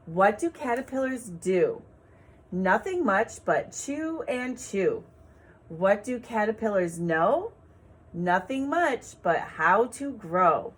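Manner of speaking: put-on slow, sing-song poem reading for children; gentle teacher reading a poem; poem read aloud. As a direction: read it like a rhyme for little ones.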